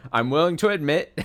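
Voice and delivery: high giggling admission; laughing. Real, not acted. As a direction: laugh through the words. Laughs admitting weak ship.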